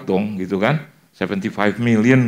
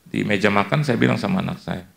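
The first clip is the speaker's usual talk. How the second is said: usual speaking voice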